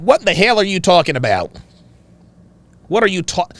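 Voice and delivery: attempted Chicago accent. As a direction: imitate a dad in an unsure Chicago accent. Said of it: "In a Chicago accent".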